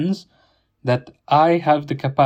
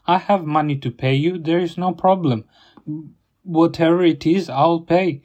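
heated retold reply; 2 semitones higher than usual. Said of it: "It's like".

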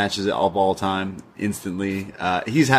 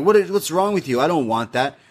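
upset Thea; 5 semitones higher than usual. Retold or imitated. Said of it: "she's like".

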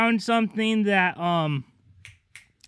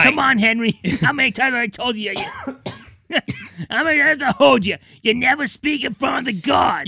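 fast, raised exasperated scold; 5 semitones higher than usual. Acted. Scolding Henry.

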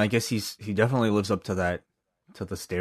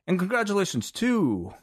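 winner announcement; 9 semitones higher than usual. Pretend. Host revealing the random draw winner, suspenseful announcement. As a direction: stretch it out before the big name. Drumroll before naming prize winner.

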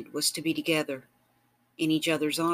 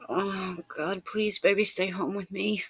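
almost begging; 5 semitones higher than usual. A narrator's reading. Lover pleading with partner to stay home, almost begging. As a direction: plead with them, pitch raised all through. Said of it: "almost begging".

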